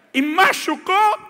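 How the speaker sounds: mother cooing over her hurt son; fussing mother. Retold or imitated. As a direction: dote over the child with worry.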